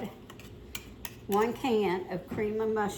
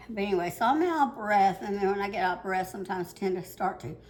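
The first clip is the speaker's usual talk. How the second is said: rushed, out-of-breath explaining; fast and breathless; faster than usual. Real, not acted. Cook explaining to viewers why they ramble, fast and breathless. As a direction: hurry the words while catching your breath. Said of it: "talk fast, trying to catch my breath".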